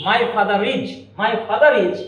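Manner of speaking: father is linked as fatharis with R sounded; connected R. Shown as a demonstration. Teacher to students, demoing the connected R. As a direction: run father into is through the R. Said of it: "আবার একটা বলি".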